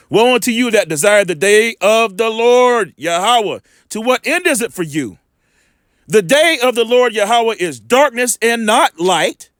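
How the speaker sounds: slow, solemn reading of a warning; scripture reading. Acted. Preacher reading Amos as a warning, slow and solemn. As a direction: read the woe slowly and gravely.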